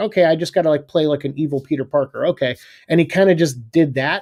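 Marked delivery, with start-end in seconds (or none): none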